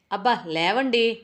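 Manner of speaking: impatient call. Acted. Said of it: "భార్యామణి అరుపుకి".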